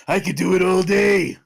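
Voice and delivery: a hint of a loud tough anime guy; brash schoolboy bravado; Kuwabara voice. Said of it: "my Kuwabara voice".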